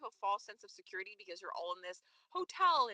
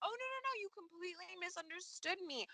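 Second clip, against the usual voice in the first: higher, hammed-up protest of innocence; retelling her backpedalling in a raised voice; mock excuse-maker; 5 semitones higher than usual. Co-host imitates Sasha explaining herself to Kiki, mock protest. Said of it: "She was like".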